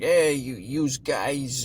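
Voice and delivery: light, mock New York tough-guy accent; a hint of a New York gangster calling out. Reviewer imitating the narrator's New York gangster accent. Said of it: "trying to put on, like, this New York accent".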